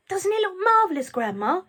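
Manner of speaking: high, loud excited call; shouted. A narrator's reading. George shouting up to Grandma. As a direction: call it up proudly. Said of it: "George shouted".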